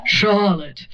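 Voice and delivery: Charlotte without the R. Shown as a demonstration. Mimicking the friend's name, dropping the R. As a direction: say Charlotte as Chahlotte. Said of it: "doesn't say the R".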